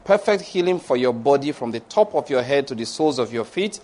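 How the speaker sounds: measured, rolling pronouncement of blessing; preaching blessing. Acted. Pastor pronounces blessings over the congregation, measured and rolling. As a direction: bless the flock with steady authority.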